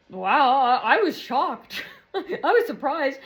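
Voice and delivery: slow, amused disbelief; laughing surprise. Real, not acted. Telling how shocked she was, laughing. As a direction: laugh through it, drawing words out.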